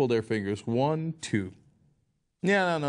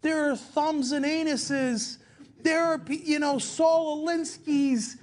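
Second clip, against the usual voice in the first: adrift Palin parody; 9 semitones higher than usual. Retold or imitated. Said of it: "if she's taken off that prompter".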